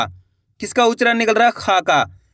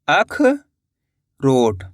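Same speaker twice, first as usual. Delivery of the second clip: drawn-out word; 6 semitones lower, much slower than usual. Shown as a demonstration. Teacher to pupils, stretching अखरोट slowly. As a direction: stretch अखरोट very slowly, every sound held long. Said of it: "teacher completing the spelled word".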